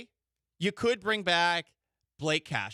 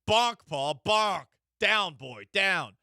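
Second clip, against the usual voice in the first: playful commands, louder, like to a pet; mock dog scolding; 3 dB louder, slower than usual. Host playfully scolding co-host Paul like a misbehaving dog. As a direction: scold him like a puppy, half joking.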